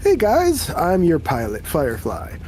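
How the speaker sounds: bubbly, bright-pitched hello from the ditzy pilot; excited greeting. Acted. Ditzy pilot Firefly greets the crew, excitedly. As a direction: greet the crew with cheery eagerness. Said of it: "She waves at you excitedly and says".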